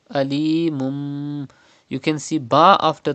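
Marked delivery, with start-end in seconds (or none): 0.1-1.5 Alimum with the tanween turned to a nasal mim; iqlab with ghunna. Shown as a demonstration. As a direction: hum the mim slowly in Alimum. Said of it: "iqlab will be done here".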